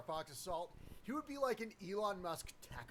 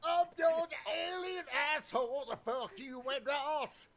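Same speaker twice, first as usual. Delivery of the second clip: Independence Day hero; 6 semitones higher, slower than usual. Pretend. Streamer yelling a mock movie-hero line, hammed-up shout. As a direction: belt it out like a cornball action hero. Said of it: "do the fucking Independence Day thing".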